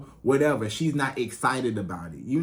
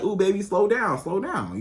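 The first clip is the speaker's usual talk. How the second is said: flirty coo; 5 semitones higher than usual. Shown as a demonstration. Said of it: "you as a woman, you gotta be like".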